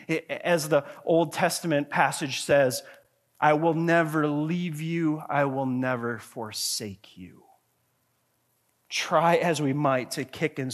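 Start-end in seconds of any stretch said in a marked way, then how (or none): 3.4-7.4 slow and weighty, settling lower at the end; solemn, slow promise. Acted. Preacher quoting God's promise to believers, slow and solemn. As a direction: give each word room, like a vow.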